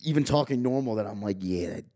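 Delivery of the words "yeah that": fake Italian accent. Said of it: "going back to my character".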